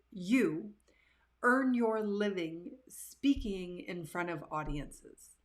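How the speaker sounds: slow, pointed mock disbelief; incredulous. Man quizzing the nervous speaker, slow mock incredulity. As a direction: spell it out as if it makes no sense. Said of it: "he said".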